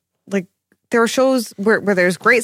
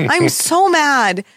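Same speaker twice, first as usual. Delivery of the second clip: slow, stretched sulking; drawn-out mad; 3 semitones higher, much slower than usual. Real, not acted. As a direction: draw the words out lazily. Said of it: "How can you say mad for so long".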